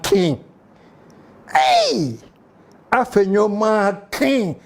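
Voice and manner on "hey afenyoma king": high, slow drawn-out hey; mock nephew greeting. Shown as a demonstration. Host copies his nephew's greeting, high and slow. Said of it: "just the way he started it".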